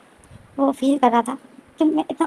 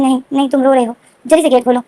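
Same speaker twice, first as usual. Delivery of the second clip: louder, insistent urging; firm demand; 5 dB louder than usual. Retold or imitated. Wing urges Evo to open the door, loud insistent demand. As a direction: order him to open up, worried.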